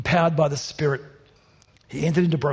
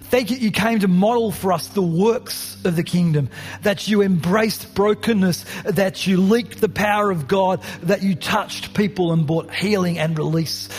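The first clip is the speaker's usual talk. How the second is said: earnest prayer. Acted. Closing prayer over music.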